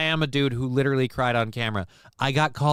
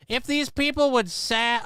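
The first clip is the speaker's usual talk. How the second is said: voice crack; 10 semitones higher than usual. Real, not acted. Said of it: "damn voice crack again".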